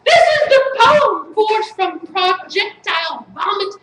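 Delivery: emphatic, chanted spoken-word delivery; incantatory slam-poem reading; poetry recital. Acted. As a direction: declaim each line as a mock-serious poet.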